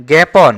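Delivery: "জ্ঞাপন" as gæpon; open e pronunciation. Shown as a demonstration. Teacher points out the exception, "জ্ঞাপন" as gæpon. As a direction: say "জ্ঞাপন" with æ, not aa. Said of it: "এখানে এ উচ্চারণ হচ্ছে".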